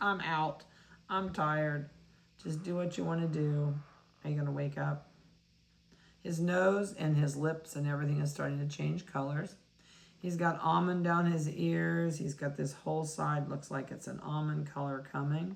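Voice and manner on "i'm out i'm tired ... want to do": put-on drowsy, sleepy little puppy voice. Speaking for a sleepy puppy being handled: voicing a sleepy puppy. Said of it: "He's just".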